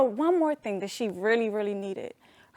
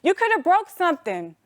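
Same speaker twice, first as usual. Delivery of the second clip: retold angry yelling; 6 semitones higher than usual. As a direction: scold like a mother who is scared and mad. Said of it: "she just started yelling".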